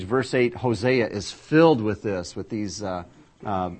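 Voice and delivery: usual speaking voice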